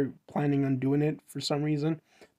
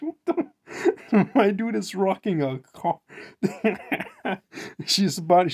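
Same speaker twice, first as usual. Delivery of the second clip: high, helpless laughing; 4 semitones higher than usual. Real, not acted. Reader cracking up at the story, laughing through words. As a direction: crack up while talking.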